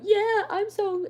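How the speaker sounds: very high, loud, slow stuck-up voice; mocking a conceited classmate in a shrill put-on drawl; mocking a vain girl. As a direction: drag it out like a preening brat. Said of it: "she was always like".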